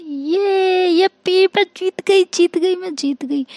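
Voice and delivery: put-on high, childlike cry of victory; overjoyed cheering. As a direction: squeal it out like a delighted kid who just won. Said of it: "तो इशिका बहुत खुश हो जाती है".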